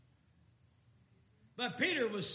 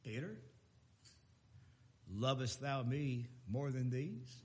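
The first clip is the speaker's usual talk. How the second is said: tender questioning Lord; 7 semitones lower, 7 dB quieter than usual. Retold or imitated. The Lord asks, soft and low.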